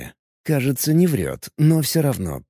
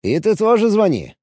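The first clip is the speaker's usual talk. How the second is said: friendly; 10 semitones higher, 3 dB louder than usual. Acted. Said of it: "постарался сделать голос максимально приветливым".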